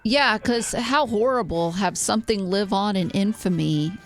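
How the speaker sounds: sarcastic. Real, not acted. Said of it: "I am picking up on your sarcasm".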